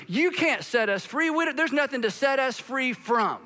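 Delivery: indignant crowd. Acted. Preacher acts out indignant crowd.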